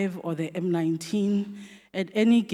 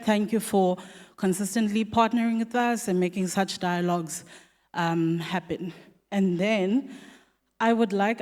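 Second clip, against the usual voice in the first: out of breath. Real, not acted. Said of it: "I don't know why I'm out of breath".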